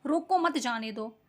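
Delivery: "रोको मत जाने दो" in one measured, lightly stressed phrase; comma phrasing demo. Shown as a demonstration. Teacher showing where the comma goes, measured demonstration phrasing. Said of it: "इसमें अल्पविराम लगा दिया".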